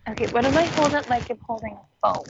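muffled, as under a blanket; distant muffled phone audio; muffled phone mic. Real, not acted. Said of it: "You're like you're under a blanket".

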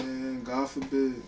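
slow, drawn-out God forbid; slow dread. Real, not acted. Friend warns of bad knees, slow dread. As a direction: let God forbid sink in, slowly. Reacting to knee injury talk.

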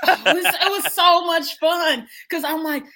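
loud, high, slowed by laughing; real delighted laughter. Real, not acted. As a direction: laugh your way through the words. Laughing as she recalls the fun.

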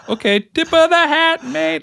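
high, hammed-up mock Jamaican accent; a silly squeaky Jamaican accent on request. Shown as a demonstration. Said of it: "I think that was my Jamaican accent".

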